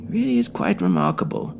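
villain boasting of his creation; smug villain Tooley. Acted. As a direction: savour the monster like a showman. Tooley's voice, held in narration.

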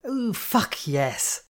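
high, slow, drawn-out squeal of delight. A narrator's reading. Penny thrilled the rumours are true, squealing. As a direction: squeal it with glee. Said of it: "Penny squeed".

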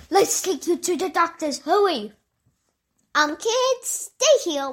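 high, urgent king; hurried king voice. Acted. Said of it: "the king was like".

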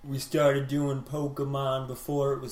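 lightly voiced drawn-out hippie. Co-host joins in the brag, light hippie voice. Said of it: "Hippie voice".

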